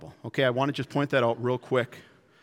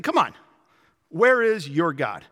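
mocking. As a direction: goad them about their absent god. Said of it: "He just got done mocking".

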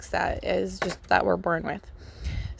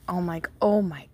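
retold amazement. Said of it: "I was, like, amazed".

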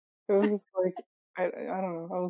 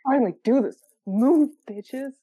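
mock bossy shout; 3 semitones higher, 6 dB louder than usual. Acting out shoving through subway crowd.

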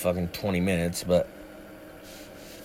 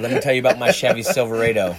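laughing; 4 dB louder, faster than usual. Retold or imitated. Laughing through the quote.

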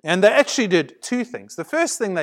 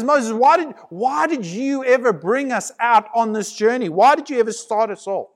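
whining complaint. Retold or imitated. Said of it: "they whinged, and they whined".

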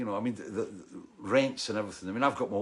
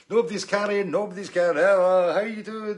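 higher, louder mock border guard shouting orders; 9 semitones higher, 8 dB louder than usual. Musician retelling border stop, imitating a loud guard. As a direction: bark the guard's orders at the bus. Tour crew at border voiced.

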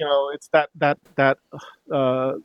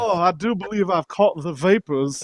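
mock Southern belle accent. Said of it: "Foghorn Leghorn kind of stuff".

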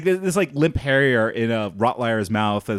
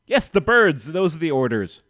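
louder, higher, exasperated henchman; insistent goon; 5 semitones higher, 4 dB louder than usual. Acted. One guard to another about shooting birds, insistent. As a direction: snap back as a goon confirming orders.

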